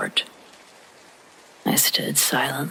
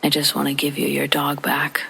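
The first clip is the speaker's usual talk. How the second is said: creepy voice. Retold or imitated. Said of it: "She said again in her creepy way".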